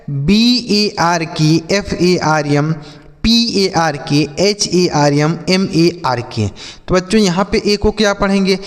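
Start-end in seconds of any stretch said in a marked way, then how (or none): 0.1-6.5 slow letter-by-letter spelling. Shown as a demonstration. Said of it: "अब देखिए आगे लिखा है".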